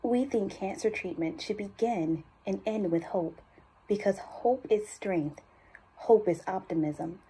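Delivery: understated urgency in a measured voiceover; serious, focused appeal for a cancer institute; urgent ad read. Acted. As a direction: drive gentle tension through the commercial copy. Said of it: "I felt that urgency".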